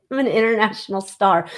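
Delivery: proclaiming it through a laugh; grandly crown yourself, chuckling; tongue-in-cheek star boast with a laugh. Real, not acted. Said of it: "So I'm gonna say that".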